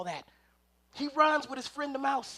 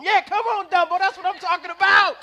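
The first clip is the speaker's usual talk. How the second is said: higher and louder cheering; excited cheer; 6 semitones higher, 9 dB louder than usual. Retold or imitated. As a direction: cheer like the family in the living room. Family cheering the flight.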